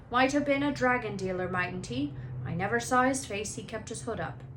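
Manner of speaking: a hint of big friendly gamekeeper, cheerful; lightly voiced jolly giant offering a drink; Hagrid's voice. Hagrid's voice beside narration.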